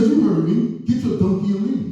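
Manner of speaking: high, sassy mock cashier voice; mock sassy dismissal. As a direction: brush him off like a rude cashier. Cashier keeps insulting.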